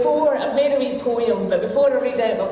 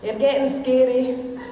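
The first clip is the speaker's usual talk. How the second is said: broad Scots comic poem recital; Scottish accent. Shown as a demonstration. Woman reading her wee poem to the lassies' men, Scottish accent. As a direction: recite rhyming verse in a Scottish accent, pausing for laughs. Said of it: "read this in my Scottish accent".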